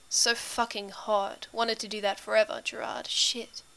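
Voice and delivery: very soft, trailing ramble; low rambling murmur. A narrator's reading. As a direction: ramble quietly, half to yourself. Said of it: "low and rambling".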